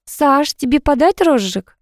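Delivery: put-on sweetly lilting girl by the grill; girl offering food to Sasha, melodious and light; melodious woman's voice. A narrator's reading. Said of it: "мелодичный женский голос".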